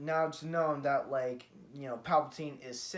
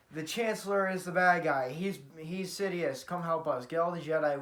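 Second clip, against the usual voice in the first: mild mock shout; 3 semitones higher, 5 dB louder than usual. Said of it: "Obi-Wan just screams while running".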